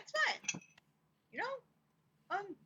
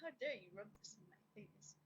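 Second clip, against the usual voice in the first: mock aggressive; 4 semitones lower, 14 dB quieter than usual. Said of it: "Just get really aggressive".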